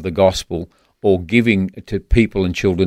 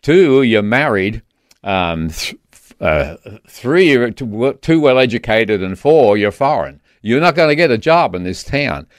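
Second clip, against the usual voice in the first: put-on southern accent. Friend telling him he won't get a Washington job, southern accent. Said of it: "uh, a southern accent".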